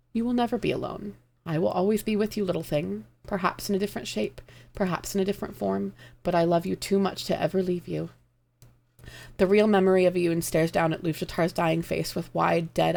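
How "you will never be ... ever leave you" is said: tender comforting. Acted. Dying Luvjatar comforting.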